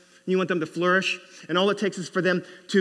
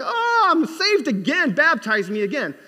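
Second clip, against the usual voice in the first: high, loud swooning convert; mock rapture; 10 semitones higher, 6 dB louder than usual. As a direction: gush as if freshly saved, hammed up. Congregation swooning over guest pastor.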